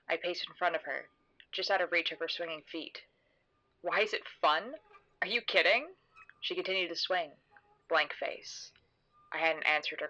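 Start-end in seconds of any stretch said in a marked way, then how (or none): 3.8-5.9 incredulous echo. Acted. Narrator echoing her companion's question on the swing, incredulous. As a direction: question swooping up in disbelief.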